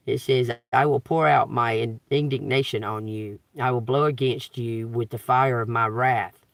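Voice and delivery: measured, solemn Bible reading; scripture reading. Acted. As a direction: read the verses out like a preacher at the pulpit. Reading Bible verses aloud.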